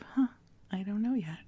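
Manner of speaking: light, open, wondering huh; curious not knowing. Retold or imitated. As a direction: say it with easy curiosity. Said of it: "more from this place of".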